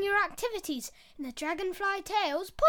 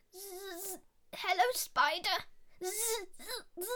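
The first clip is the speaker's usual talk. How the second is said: fly voice; 5 dB quieter than usual. Acted. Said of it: "a different one for Fly".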